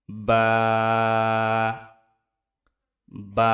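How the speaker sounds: বা said firmly with the lips pressed together; Arabic letter demo. Shown as a demonstration. Teacher modelling বা for viewers to echo. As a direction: model বা cleanly for repeating. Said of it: "আমার সাথে সাথে উচ্চারণ করুন".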